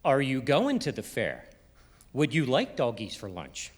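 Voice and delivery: questions with the crescendo on GOING and LIKE, mid-sentence; sing-song Allentown question. Retold or imitated. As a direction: swell on "going" and "like", then let the end fall. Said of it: "put it in the middle of the sentence".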